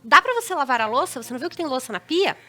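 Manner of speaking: mildly irritated wife demanding dishes; mock exasperated nagging. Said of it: "Geralmente não é nesse tom".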